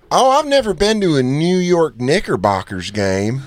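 drawn-out, swooping delivery; imitated wide-eyed date. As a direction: slowly play the impressed date. Voices the woman on a date.

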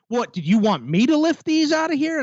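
high, mock-baffled cashier voice. Quoting the cashier's question, high mock-baffled squeak. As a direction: squeak it up high like a confused clerk. Cashier quoted, much higher.

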